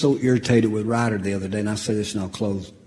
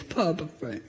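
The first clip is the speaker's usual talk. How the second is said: put-on tearful child; 10 semitones higher than usual. Crying grandson begging Papa Frank, high teary child voice. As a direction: beg forgiveness like a crying little boy. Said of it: "these big tears on his face".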